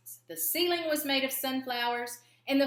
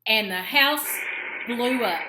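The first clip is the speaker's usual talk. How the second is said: much louder, punching "blew up"; dramatic boom; 9 dB louder, slower than usual. A narrator's reading. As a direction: make the explosion burst out of your voice. Dynamite explodes the house.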